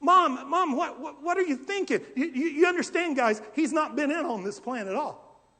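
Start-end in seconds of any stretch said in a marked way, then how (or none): 0.0-2.0 laughing disbelief. Retold or imitated. Son questioning mother's plan.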